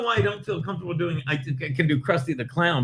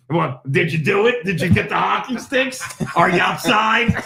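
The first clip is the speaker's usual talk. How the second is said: Florentine impression; 4 dB louder than usual. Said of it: "not great at impressions, but that one's not bad".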